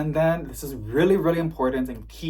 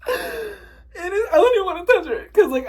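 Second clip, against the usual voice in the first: high, squeaky and overwhelmed; emotional gushing; 5 dB louder than usual. Real, not acted. Vlogger afraid to touch precious plant, emotional squeak. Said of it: "sorry if I got emotional".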